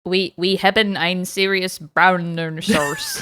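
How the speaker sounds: slow, giggly fake Dutch; mock Dutch. Co-host answers the intro with a joke in mock Dutch. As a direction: put on a silly Dutch-sounding language. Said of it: "That's Dutch for I love my brown sauce".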